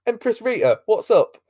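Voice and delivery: loud, high cheery hail; mock greeting. Acting out villain's cheery greeting.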